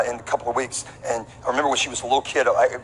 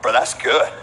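mock narrator voice; 5 semitones lower than usual. Discovery Channel imagined reaction.

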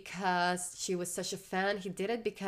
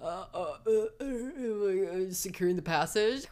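mock terrified stammer. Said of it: "Gaius being a Roman is just terrified".

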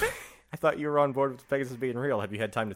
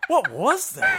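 duck voice; 7 dB louder, much slower than usual. Acted. Imitating the duck squawk.

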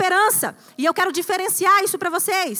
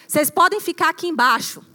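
Abraham to servants; 3 semitones lower than usual. Acted. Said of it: "Abraão fala assim com seus servos".

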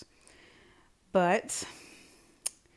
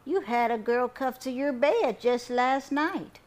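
high, loud, slow accusation; scandalized grandma, stretching the words; accusing grandma; 7 semitones higher, 7 dB louder than usual. A narrator's reading. Grandma confronts grandson about last night, accusing.

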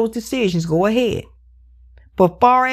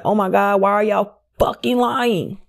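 disbelieving whisper. Retold or imitated. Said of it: "And I'm like".

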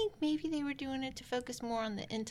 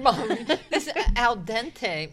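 hammed-up Italian; 2 semitones higher, 7 dB louder, much slower than usual. Hammed-up Italian food critic.

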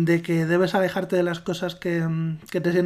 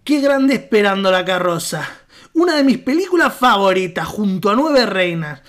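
put-on Argentine accent; 4 dB louder than usual. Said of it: "cuando no estoy leyendo, hablo normal".

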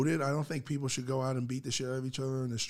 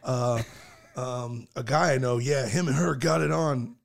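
backpedaling braggart; 3 semitones lower, 5 dB louder than usual. Retold or imitated. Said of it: "He's like".

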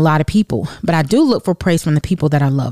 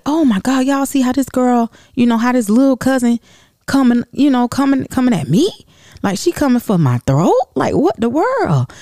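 higher, animated mock outrage; gossiping outrage; 8 semitones higher than usual. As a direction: dish it to your cousins, amazed. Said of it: "we, um, was like".

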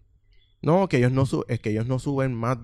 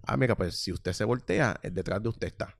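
exaggerated politeness; 4 dB quieter than usual. Shown as a demonstration. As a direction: overdo the polite service tone, trailing off quietly. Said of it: "No, se lo dije, se lo dije normal".

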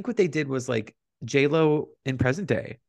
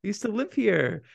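imitating J Lo; 9 semitones higher than usual. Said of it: "she says".

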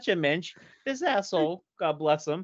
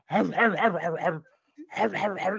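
imitated dog growl; 3 semitones higher than usual. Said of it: "This thing's like".

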